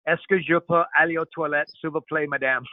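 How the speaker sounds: French as remembered from school; schoolroom French. Shown as a demonstration. Host showing Marcos his school French, schoolroom French. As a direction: recite a French classroom request. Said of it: "wanna hear some French from me?".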